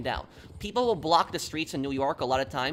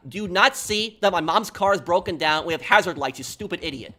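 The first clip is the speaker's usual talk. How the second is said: retold yell; 2 semitones higher, 5 dB louder than usual. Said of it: "at the top of my lungs, I literally just screamed at him".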